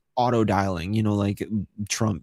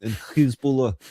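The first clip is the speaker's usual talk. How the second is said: mock Israeli accent. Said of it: "a Israeli accent is so funny".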